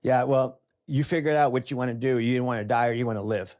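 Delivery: retold doctor, no-nonsense and a touch forceful; disgusted doctor. Older doctor to patient asking for one beer, mildly disgusted. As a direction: lightly imitate a fed-up doctor laying down an ultimatum. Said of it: "He just looked at me in disgust".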